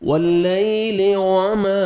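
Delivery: "واللیل وما" slowly, each w made with fully rounded lips; rounded waw. Shown as a demonstration. Teacher shows the waw, rounded and clear in "واللیل وما". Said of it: "ہونٹ گول کریں گے".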